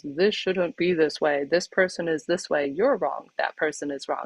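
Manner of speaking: the judgy bunny scolding everything in sight. Retold or imitated. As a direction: play the petty judge in your head. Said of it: "your judgy bunny is the one who says".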